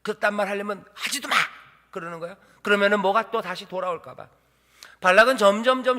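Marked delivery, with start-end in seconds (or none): 0.0-1.4 huffy mock scolding; feigned sulk. Balak pretending offence at Balaam, sulky huff. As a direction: act offended and snap it off. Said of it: "토라진 척하지".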